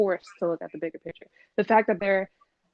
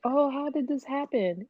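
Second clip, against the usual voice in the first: higher-pitched mock lament; mock weeping; 5 semitones higher than usual. Imitating spring breakers who got sick, mock weeping. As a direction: whine it, imitating the crying partygoers. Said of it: "they all sad and crying".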